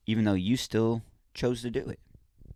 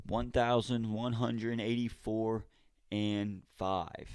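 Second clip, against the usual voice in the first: raffle announcer; 3 semitones higher, 3 dB quieter, slower than usual. Pretend. Number gets called in raffle.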